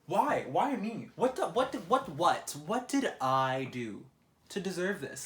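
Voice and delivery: high, loud mock despair, slowing at the end; exasperated wail. Real, not acted. Complaining to viewers about the awful morning, high dramatic wail. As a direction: wail to the heavens in disbelief. Lamenting his bad morning.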